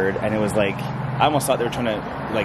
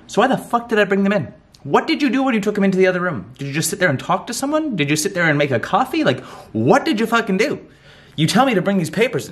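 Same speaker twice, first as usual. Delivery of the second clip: raised, higher-pitched venting at the bank; exasperated rant; 9 semitones higher than usual. Real, not acted. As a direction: let the frustration spill out, voice pushed up high. Ranting at the bank.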